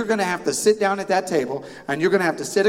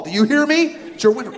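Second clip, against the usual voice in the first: higher, louder mock parental yell; slipping into yelling; 6 semitones higher, 4 dB louder than usual. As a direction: let the whisper-yell break into a shout. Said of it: "do, excuse me".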